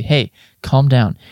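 slow, gentle, calming; softening. Acted. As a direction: soothe him down. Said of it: "my expression softening slightly".

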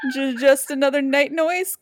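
stammering, high and loud; nervous gulp. A narrator's reading. Jim the monkey hears creepy cackling, nervous stammer. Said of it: "gulped Jim".

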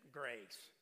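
put-on "grace." in a mild Texas accent. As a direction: imitate a Texan saying "grace.". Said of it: "you can't say grace with that Texas accent".

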